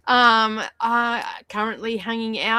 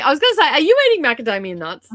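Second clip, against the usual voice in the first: fast, high laughing question; 12 semitones higher, 8 dB louder, faster than usual. Real, not acted. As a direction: giggle while asking. Laughing at chat message.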